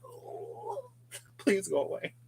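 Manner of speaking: small high squirming plea; high, soft begging to be left alone; mock pleading. Porch sitter to a bee flying too close, mock pleading.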